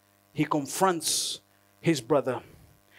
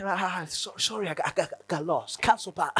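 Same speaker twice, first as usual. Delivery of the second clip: quiet, fumbling mock apology; a caught-out driver mumbling sorry; sheepish driver; 5 dB quieter than usual. Lost driver apologising to the customer, quiet and sheepish.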